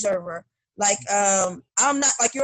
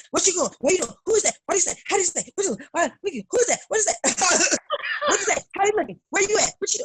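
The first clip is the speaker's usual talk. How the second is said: rapid high prying questions, higher pitch; nosy mother; 9 semitones higher, much faster than usual. Retold or imitated. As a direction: fire off questions like a hovering mom. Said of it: "I'm like".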